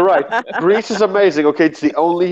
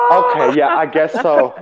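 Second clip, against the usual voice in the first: meek mock fan. Fan caving in to Rian Johnson, squeaky meek voice. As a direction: cave in meekly. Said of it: "They'll be like".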